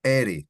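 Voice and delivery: ere with one quick tapped r. Shown as a demonstration. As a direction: tap the r in ere once. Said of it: "the one R is pronounced".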